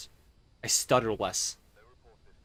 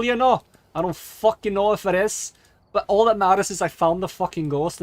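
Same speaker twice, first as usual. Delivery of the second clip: louder, higher, emphatic self-justification; worked-up boasting; 6 semitones higher, 7 dB louder than usual. Acted. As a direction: argue loudly that luck is skill. Defending a lucky guess as skill.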